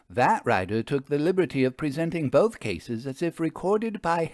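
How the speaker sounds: lightly voiced Vera, a brisk older lady; a hint of a lively lady lecturing her friend; Vera's voice. Vera explaining her mentor to the narrator, lightly voiced.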